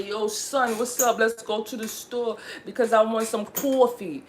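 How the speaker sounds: put-on New York accent. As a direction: lay on New York slang and sound. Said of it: "trying to make myself sound New York".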